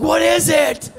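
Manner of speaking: high, loud, wide-eyed astonishment; amazed villager. Acted. Villagers crowding the first carrot, high amazed voices. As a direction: gasp it out like a caveman seeing food.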